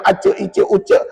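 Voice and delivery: "acak, icak, ucak" with ch where j belongs; wrong jim. Shown as a demonstration. Teacher warning students off a mistake, ch-sounding "acak, icak, ucak". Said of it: "itu bukan bunyi jim".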